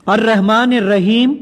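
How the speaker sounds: slow, deliberate misreading of "الرحمن الرحیم"; deliberately wrong recitation. Shown as a demonstration. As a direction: recite "الرحمن الرحیم" slowly with intentionally faulty tajweed. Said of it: "اب میں اس کو غلط پڑھوں گا".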